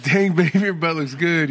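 loud, high admiring catcall; mock flirty catcall. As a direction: hoot it like an impressed husband. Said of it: "I was like".

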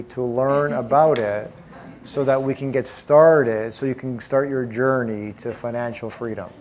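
bore the room on purpose, dragging every word; low-energy presenter. Shown as a demonstration. Seminar leader mocking a dull opener, slow listless drone. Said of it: "what if I came here and I was like this?".

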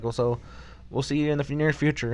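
lightly voiced little-boy king; baby talk. Retelling the little king's goodbye to Goku, hint of babyish voice. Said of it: "He talks like a baby".

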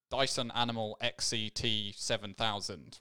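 flat, mechanical robot reading. Pretend. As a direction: say the model name like a robot. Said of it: "I don't know why I did a robotic voice".

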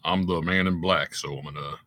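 a hint of a singer's menace; impression of a country singer. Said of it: "the singer was the murderer".

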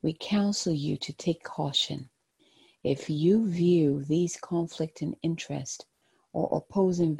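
gentle, hushed guided-meditation voice. Acted. Tarot card reading, meditative guidance.

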